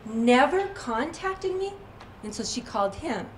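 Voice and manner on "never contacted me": slow, indignant retold disbelief, pitch climbing at the end; mock outrage, drawn out and rising into a question; mildly furious. Woman stews over the man who hit her, mildly furious. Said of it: "She was just furious".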